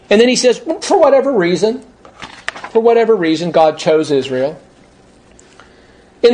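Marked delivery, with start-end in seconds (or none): 0.8-4.6 mocking quote. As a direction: repeat the phrase with open scorn. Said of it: "That's a stupid comment".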